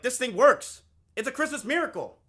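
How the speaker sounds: high, loud burst of joy; mock-triumphant amazement. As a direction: exclaim it like a miracle has happened. Joking triumph over his own arousal.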